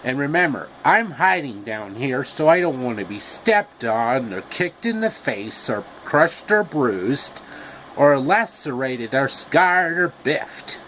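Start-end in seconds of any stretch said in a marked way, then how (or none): 3.2-10.8 slow, drawn-out campy list; a hint of Paul Lynde; Paul Lynde styling. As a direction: savour each word campily. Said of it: "with the styling of Paul Lynde".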